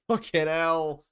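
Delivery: slow, high, laughing exasperation; laughing curse. Real, not acted. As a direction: laugh at your own failure. Cube scrambled again.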